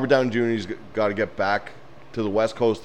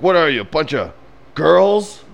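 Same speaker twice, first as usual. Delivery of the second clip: high, mocking jeer that peaks on "girls"; hammed-up taunting, rising into a loud squeal; movie character's taunt; 7 semitones higher, 5 dB louder than usual. Acting out the movie's bathroom scene, mock taunting. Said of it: "He's like".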